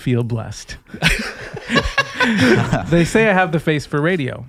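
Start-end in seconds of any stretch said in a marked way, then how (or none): 0.8-2.8 a high real laugh bursting out; high burst of laughter. Real, not acted. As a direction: laugh high at your own joke. Laughing at own joke.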